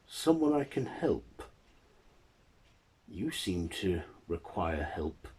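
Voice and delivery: lightly voiced old man, pitch jumping up; blind old man. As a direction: reach out to a lonely stranger as an old man. Lonely blind man befriends the creature.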